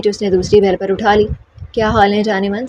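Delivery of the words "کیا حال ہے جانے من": playful. Acted. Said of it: "شوخ لہجے میں کہا".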